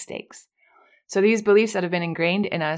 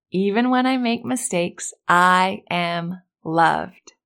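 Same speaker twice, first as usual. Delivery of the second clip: very slow, deliberate affirmation; slower than usual. Shown as a demonstration. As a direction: stretch out I am loved. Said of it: "repeat after me".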